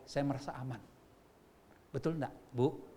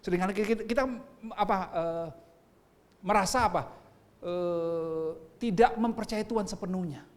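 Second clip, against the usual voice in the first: ordinary talk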